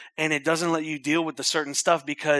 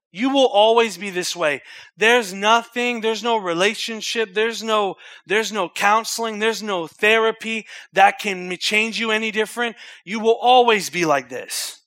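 louder, higher accusing voice building on; rising accusing voice; 5 semitones higher, 5 dB louder than usual. Acted. Preacher voicing the devil's accusation, louder and higher. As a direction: hammer the accusation harder each line.

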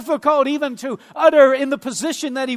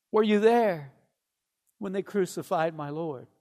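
falling to a low, soft close; hushed recital; 6 semitones lower, 7 dB quieter than usual. Acted. Preacher ending the hymn's words, hushed and low. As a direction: let the last line sink very quietly. Hushed last line of quoted hymn.

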